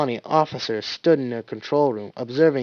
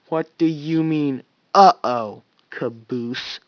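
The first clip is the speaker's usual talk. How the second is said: forced calm; 2 semitones higher, slower than usual. Acted. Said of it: "as calmly as he could manage".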